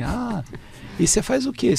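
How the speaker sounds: surprised. Retold or imitated. Amazed questioning of Cícero.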